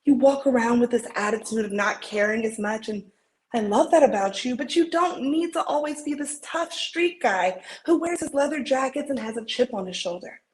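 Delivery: earnest pep talk, acted with feeling; heartfelt dramatic encouragement; audition monologue. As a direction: insist on their worth, building from gentle to emphatic.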